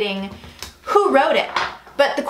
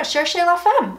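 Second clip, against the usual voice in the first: Cherchez la Femme in a playful mock French accent; 5 semitones higher than usual. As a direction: toss it off in a hammed-up French accent. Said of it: "Don't I have a great French accent?".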